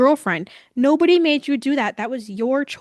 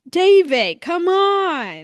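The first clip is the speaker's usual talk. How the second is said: imitating a raised, loud yell at him; exasperated yell; 7 semitones higher, 5 dB louder, much slower than usual. Gabby yelling at David for stalling, imitated exasperated shout. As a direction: call out high and loud, mimicking her. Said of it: "Gabby is yelling at him".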